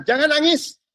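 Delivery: a queen coaxing a mourner to enter the palace; Esther's gentle plea. Retold or imitated. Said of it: "Esther dia bilang".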